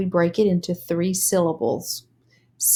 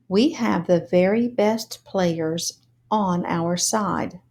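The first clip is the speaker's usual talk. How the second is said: "We have the very best players on our side" read smoothly; fluent reading. Shown as a demonstration. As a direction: read the whole line smoothly. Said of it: "Now let's read together".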